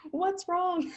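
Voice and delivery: high, lost little voice; squeaky confused question; mock bewildered. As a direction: play it baffled and helpless. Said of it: "We're like".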